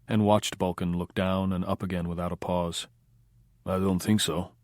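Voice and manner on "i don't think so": quiet guttural Russian accent, lightly voiced; a hint of Akim Tamirov's Russian accent, quiet and guttural; Russian gangster denying it in a quiet guttural Russian accent. A narrator's reading. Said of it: "Chili heard Akim Tamirov, that kind of accent, the tone quiet, guttural".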